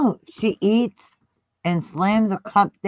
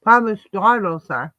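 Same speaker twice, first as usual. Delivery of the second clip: mouth full. Real, not acted. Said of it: "Sorry, I'm eating cookies".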